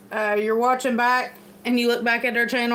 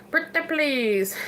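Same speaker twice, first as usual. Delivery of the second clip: slow, higher pleading pretty please; sweetly insistent; 4 semitones higher, slower than usual. Real, not acted. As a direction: coax them like a sweet beggar. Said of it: "it sounds like I'm begging".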